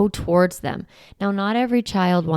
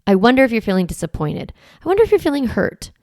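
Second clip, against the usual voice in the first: gentle validating; 4 dB louder than usual. Shown as a demonstration. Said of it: "validate the emotion".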